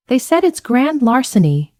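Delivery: pitched high and wailing; a light touch of sobbing panic, voice jumping up; bawling. A narrator's reading. Sister bawling to Jean over the phone, high and wailing. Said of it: "she bawled".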